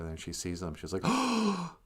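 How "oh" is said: lightly voiced old lady, higher pitch; a hint of an awed old woman; higher, wondering old-lady voice; old Jamaican lady. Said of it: "this old lady from Jamaica".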